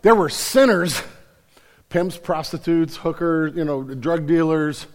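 loud, high, driving sermon voice; full-force preaching. Acted. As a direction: preach it out to the crowd.

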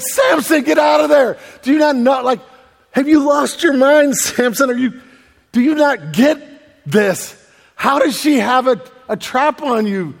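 high, loud plea to a fool; incredulous, punched-out scolding; exasperated shouting. Acted. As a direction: yell a warning at the story's hero. Readers yelling at Samson in story.

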